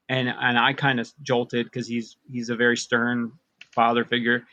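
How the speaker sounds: ordinary talk, nothing marked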